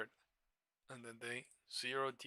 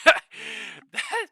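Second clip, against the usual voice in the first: much higher, louder, laughing and slowed; 17 dB louder than usual. Real, not acted. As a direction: let the laugh take over the word. Laughs at life-changing move idea.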